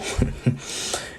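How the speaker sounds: short, soft acted chuckle; low-key chuckle in character; little laugh. Izuku chuckling before a lethal attack, amused. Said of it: "he starts to laugh a little".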